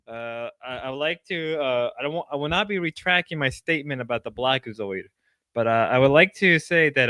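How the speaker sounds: mock-formal public statement; mock announcement. Streamer giving a mock-formal public statement to chat. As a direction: read it like a press statement, lightly. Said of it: "make a public announcement".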